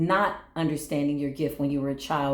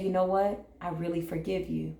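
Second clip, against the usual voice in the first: softer, heartfelt "I really forgive you"; genuine forgiveness; 4 dB quieter than usual. Shown as a demonstration. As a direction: open your heart as you say it. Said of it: "when you genuinely say".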